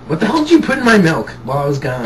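laughing. Real, not acted. First asking, laughing.

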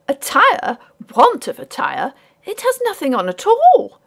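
high, loud scandalised mother; exclaiming lady. A narrator's reading. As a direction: protest in a high ladylike voice. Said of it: "exclaimed Missus Ray".

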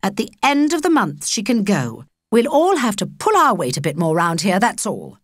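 firm. Acted. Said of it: "But Favre was firm".

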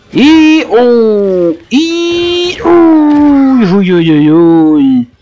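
loud high yelps of sudden fright; startled yelps. Real, not acted. Gamer startled mid-chase, yelping in real fright. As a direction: caught off guard, yelping uy uy uy.

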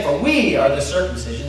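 WE picked out and held in "For we"; stress on WE. Shown as a demonstration. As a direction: lean on the word "we". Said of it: "That's the way he says it".

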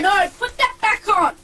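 crying shout. Real, not acted. Kid upset TV off.

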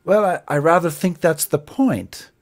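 lightly voiced British officer; put-on British accent. Other officer replying to the harrumpher, light British accent. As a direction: answer in a mild mock British officer accent. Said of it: "so I'll do an accent".

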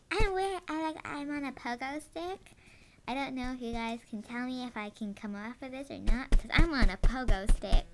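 loud, bouncy hyper voice. Pretend.

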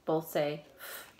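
the sound f, said slowly and alone. Shown as a demonstration. Teacher modelling the f sound for students. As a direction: model the f sound for the kids to copy. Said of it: "P H and F".

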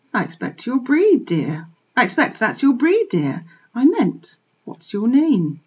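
kind. Acted. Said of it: "to the piglet she said kindly".

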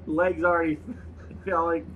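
halting put-on Russian accent. Dying note writer feeling funny, halting mock Russian. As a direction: break up the words in mock Russian.

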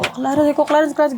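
restrained, unshouted calling of his name; gentle calling. Shown as a demonstration. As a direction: coax him by name without yelling. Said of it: "Inano ko po siya ng mahinahon". (mahinahong pagtawag)

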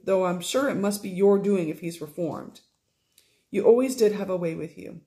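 lightly voiced affectionate stepmother; gentle scolding with warmth; fond Fanny. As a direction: stepmother fondly chiding Sophie, lightly voiced.

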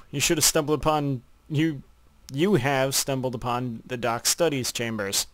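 talking while chewing a sandwich; mouth full. Real, not acted. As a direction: speak through a mouthful. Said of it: "talking with his mouth full".

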